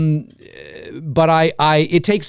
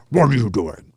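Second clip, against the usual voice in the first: pitched-down Freddy; 6 semitones lower than usual. Retold or imitated. Showing the pitched-down Freddy voice, lower growl. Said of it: "then of course they pitch him down".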